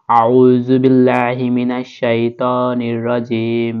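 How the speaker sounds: measured Quranic recitation, drawn out; slow recitation. Shown as a demonstration. Teacher opening the lesson with a slow recited formula. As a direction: recite slowly as in prayer.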